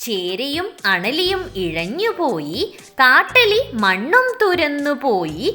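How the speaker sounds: lilting, measured verse reading; rhythmic nursery verse with pauses between lines; children's poem recital. Acted.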